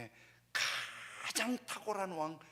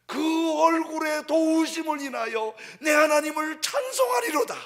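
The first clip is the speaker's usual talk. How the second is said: much higher and much louder, full voice; triumphant shout; 13 semitones higher, 18 dB louder than usual. Acted. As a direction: shout the praise to the rafters. Sermon climax praising God.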